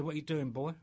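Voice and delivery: put-on light Southern US state trooper accent; a hint of an Arkansas patrolman. State trooper challenging a long-haired hitchhiker, light Southern accent. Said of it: "good accent".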